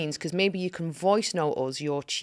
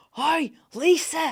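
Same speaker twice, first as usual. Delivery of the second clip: put-on very high-pitched Scouse holler; 11 semitones higher, 3 dB louder than usual. Recalling a man who once shouted at her in Liverpool, retelling a Scouser's shout. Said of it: "A Scouser once shouted to me".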